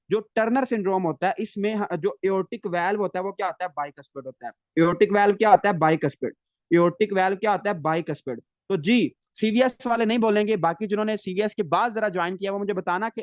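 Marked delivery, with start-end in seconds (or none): 4.8-8.4 emphatic drilling. Real, not acted. Teacher quizzing students on the aortic valve, emphatic. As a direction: hammer the key point home loudly.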